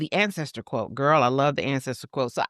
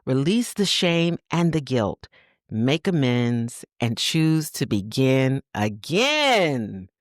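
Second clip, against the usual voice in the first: slow, gentle reading of an affirmation. Acted. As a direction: read it like a soothing letter to a mother. Rereads affirmation.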